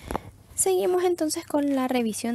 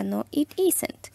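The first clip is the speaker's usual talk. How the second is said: slow model answer; much slower than usual. Shown as a demonstration. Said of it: "y una negativa".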